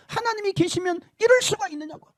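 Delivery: high accusing cry; damned soul accusing God; railing at God. Retold or imitated. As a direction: shake a fist at heaven. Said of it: "삿대질을 하면서".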